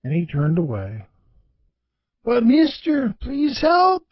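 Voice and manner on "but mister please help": higher, urgent plea; panicked pleading. Acted. Desperate driver begs George for help, panicked and pleading. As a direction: beg the old man not to walk away.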